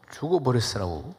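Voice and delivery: lightly imitated Jeolla speech; Jeolla dialect. Shown as a demonstration. Preacher comparing dialects for the congregation, Jeolla version. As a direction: say it with a Jeolla lilt. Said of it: "전라도 말로".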